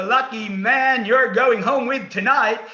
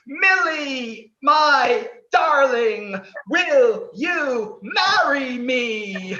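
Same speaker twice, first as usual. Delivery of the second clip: tender proposal; 5 semitones higher, slower than usual. Acted. Host proposes.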